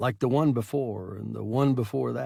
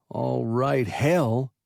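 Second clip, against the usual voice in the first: thin monotone; 5 dB louder, much slower than usual. Acted. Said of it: "in a thin monotone".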